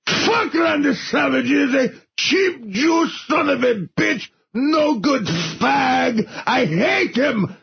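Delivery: hammed-up furious rant with a sob in it; mad Iron Sheik rant. Ranting at Randy Savage for the hosts, hammed-up fury. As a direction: spit it out like a wounded wrestler. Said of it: "from mad to crying".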